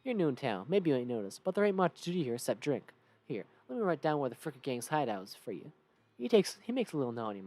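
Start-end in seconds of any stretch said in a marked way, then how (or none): 0.0-2.9 lightly Southern townsperson; drawn-in Southern game character; Southern accent. Acted. Townsperson greets the player as a newcomer, Southern accent. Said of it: "Southern accent for all these guys". 3.3-5.7 put-on light Southern accent; friendly Southern local giving directions. Townsperson gives the player directions, light Southern accent. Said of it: "Southern accent for all these guys".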